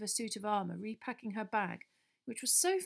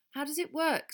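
nervously; 8 semitones higher, 5 dB louder than usual. A narrator's reading. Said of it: "said Harry nervously".

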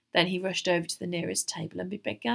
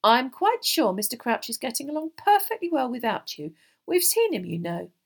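put-on firm, raised, louder girl's voice; emphatic reassurance, pitched up; 6 semitones higher, 7 dB louder than usual. A narrator's reading. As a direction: insist firmly. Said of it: "said Hermione firmly".

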